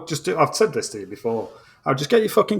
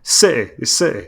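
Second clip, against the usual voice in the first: Mancunian accent. Shown as a demonstration. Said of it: "We'll get you some Mancunian".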